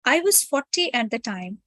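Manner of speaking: measured read-aloud with pauses between phrases. Real, not acted. Reads the chosen text aloud to group.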